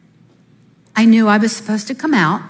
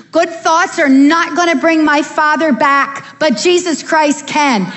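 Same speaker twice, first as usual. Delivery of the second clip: emphatic declaration; 6 semitones higher, slower than usual. Retold or imitated. Confronting the Scientologist boyfriend.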